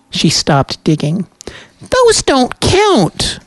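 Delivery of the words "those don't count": slow, high eerie spirit voice; nightmare spirit. A narrator's reading. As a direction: draw it out like an uncanny spirit. Spirit bargains over questions.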